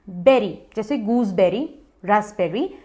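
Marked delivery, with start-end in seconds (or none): 0.1-0.6 बेरी like the end of gooseberry; short e in बेरी, "ber-ee"; correct pronunciation. Shown as a demonstration. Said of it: "pronounce करते हैं". (बेरी को गूसबेरी के "बेरी" जैसा बोलें)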